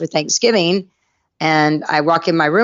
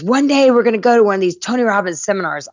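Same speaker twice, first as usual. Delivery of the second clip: imitated eager announcement, higher pitch; enthusiastic boyfriend; 4 semitones higher, faster than usual. Boyfriend pitching seminars to his girlfriend, mock enthusiastic.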